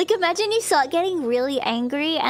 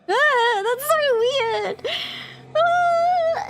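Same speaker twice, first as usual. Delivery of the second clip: high squealing laugh-cry, much higher and louder; shrieking laugh; 13 semitones higher, 3 dB louder, much slower than usual. Real, not acted. Streamer reading about tulpas, shrieking with laughter.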